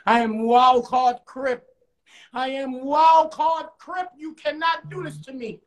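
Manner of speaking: high, drawn-out protest; mock scream. Relly protesting to his attackers on the ground, mock scream. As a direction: cry it out slowly, without full volume. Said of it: "Relly screams out".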